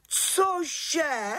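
pohoršené Cože, výš; zděšený výkřik. A narrator's reading. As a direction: vyjeknout zděšením. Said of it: "Vykřikla vrchní čarodějnice". (vrchní čarodějnice zděšeně vykřikne nad novinkou)

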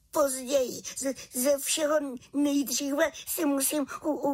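stuttering high with chattering teeth; frozen through, words breaking on chattering teeth; high stammering little witch, chilled to the bone. Acted. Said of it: "jen drkotala zuby".

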